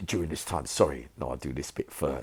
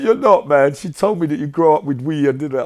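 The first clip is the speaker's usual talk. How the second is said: Escobar protesting; 11 semitones higher, 13 dB louder than usual. Retold or imitated. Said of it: "He goes".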